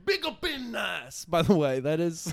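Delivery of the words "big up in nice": high, slow mock vaguely Asian accent; hammed-up vaguely Asian accent. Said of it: "I do this vaguely Asian accent".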